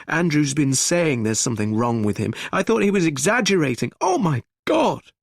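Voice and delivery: frantic high distraught voice; hysterical panic. Acted. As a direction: babble the news in panic. Gregory panicking over the killings.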